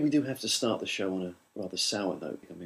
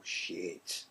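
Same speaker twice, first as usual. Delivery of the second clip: whispered; 5 semitones lower, 14 dB quieter than usual. Retold or imitated. Inner thought quote.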